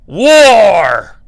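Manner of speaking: booming, forties announcer cry; old newsreel. Acted. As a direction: bellow it like a wartime newsreel. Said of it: "sounds like a fucking nineteen forties newsreel".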